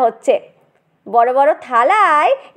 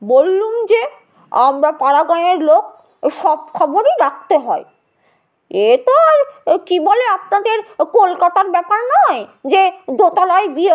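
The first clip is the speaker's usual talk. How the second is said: calm smiling; 4 semitones higher than usual. Acted. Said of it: "শান্ত হাসি হেসে বললেন".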